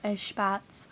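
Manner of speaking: Eshbats said with a "sh", esh-bats; Eshbats variant. Shown as a demonstration. Repeating a variant she heard, Eshbats as "esh-bats". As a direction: say "Eshbats" slowly with sh for the s. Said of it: "I've heard somebody say that".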